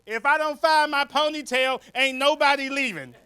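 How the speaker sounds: high-pitched mock threat; retold street scream. Comedian imitates lady screaming on a New York street, high holler. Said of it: "some lady just screamed out".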